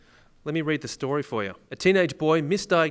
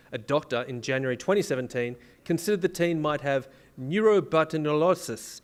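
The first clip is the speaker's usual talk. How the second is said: put-on Italian accent. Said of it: "Why did you say that in an Italian accent?".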